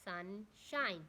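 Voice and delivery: SUNSHINE split as sun, then shine; two separate syllables. Shown as a demonstration. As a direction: say "sunshine" in two distinct beats. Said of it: "Two syllables word".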